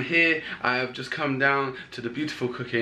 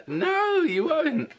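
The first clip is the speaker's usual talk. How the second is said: laughing tease; much slower than usual. Real, not acted. Dad teasing baby son.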